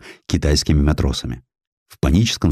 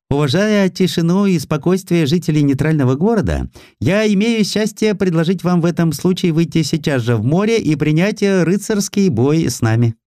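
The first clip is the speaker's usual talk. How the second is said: high, mannered, smugly polite officer; Japanese officer voice; 12 semitones higher than usual. A narrator's reading. Lieutenant Tarashima challenges the Russians, high and smug. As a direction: lay on the false courtesy with a sneer.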